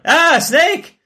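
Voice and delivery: high startled cry of fright; startled yelp. Retold or imitated. The speaker acting out spotting a snake, startled yelp. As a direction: jump back from a snake with a yelp. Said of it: "You go like".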